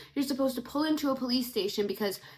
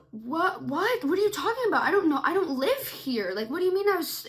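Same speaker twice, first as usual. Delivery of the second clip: confused disbelief; 5 semitones higher, 3 dB louder than usual. Retold or imitated. Her confused reply to stranger.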